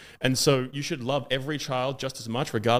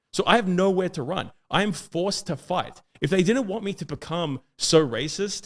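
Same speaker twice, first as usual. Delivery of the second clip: builds higher and louder toward the end; rising impassioned; 4 semitones higher, 3 dB louder than usual. Real, not acted. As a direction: voice climbing as the anger swells, ending near a shout. Impassioned climax of a rant.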